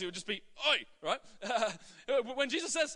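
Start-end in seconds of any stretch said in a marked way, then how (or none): 0.7-0.8 Australian Oi call-out; Aussie call. Shown as a demonstration. Australian pastor playfully voicing Jesus, Aussie call. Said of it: "if it was written in Aussie".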